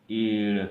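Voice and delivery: ईड़ loud, with a long held ee; teacher sounding out ईड़; pronunciation demo. Shown as a demonstration. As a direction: hold the vowel in ईड़ before the final consonant. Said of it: "ईड़ उच्चारण किया जाता है".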